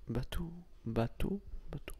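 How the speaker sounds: "bateau" slowly, testing the final O; slow careful "bateau" with a rounded ending; practised closed O. Shown as a demonstration. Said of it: "bateau, j'arrive à le dire".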